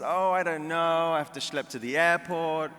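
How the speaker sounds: Jewish mother. Retold or imitated. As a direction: whine it like a reluctant Jewish mother. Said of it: "And Mom says".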